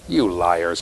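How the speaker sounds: low, deadpan "you liars"; mock accusation. Teacher teasing the class over crayon, low mock accusation. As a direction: drop low to accuse in jest.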